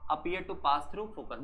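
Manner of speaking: slow, word by word for notes; slow dictation. Shown as a demonstration. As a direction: dictate it slowly so students can write. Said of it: "कैसा होगा?". (धीरे धीरे लिखवाना)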